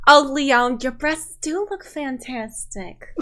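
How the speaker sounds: slow, doting grandmother voice. Acted. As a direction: drawl out the compliment like a grandma.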